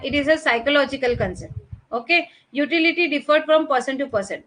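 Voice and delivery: words spaced out very slowly for note-taking; teacher dictating, very slow and even; slow dictation. Shown as a demonstration. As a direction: dictate it so they can write every word. Dictating definition.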